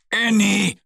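leicht erschrockener Ruf, etwas gehoben; rufend. A narrator's reading. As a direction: den Namen besorgt herüberrufen. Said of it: "ruft er". (Bär ruft erschrocken nach der Ente)

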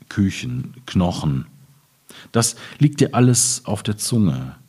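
measured, spaced poetry reading with pauses; poem recital. Acted. Reading his Ruhr poem to the audience, measured poetic recital. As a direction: let each image land, one by one.

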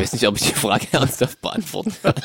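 kichernd, kaum ernst bleiben; lachend. Real, not acted. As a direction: die Worte lachen heraus. Frage bringt ihn zum Lachen. (lachend, kann nicht ernst bleiben)

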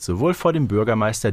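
ordinary talk, nothing marked

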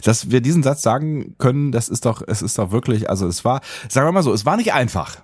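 eating an ice lolly while talking; mouth full. Real, not acted. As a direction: talk around a mouthful of ice. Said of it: "Was machst du denn da".

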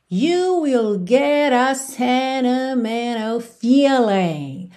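slow, careful lyric read with sentimental as senemenal. Shown as a demonstration. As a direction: read the line slowly, dropping the t in sentimental. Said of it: "Essa frase aqui é muito interessante".

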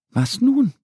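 high, bright little duck Annie. Acted. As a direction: play the small duck, pitched well up. Ente ratlos neben schlafendem Bär. (Annie weckt Mo mit hoher Entenstimme)

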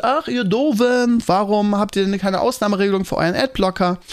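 hammed-up childish complaint; mock scolding. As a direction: tease the readers in a sulky sing-song. Mock scolding his blog readers.

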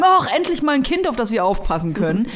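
delighted welcome. Pretend. Imagined cheerful daycare staff.

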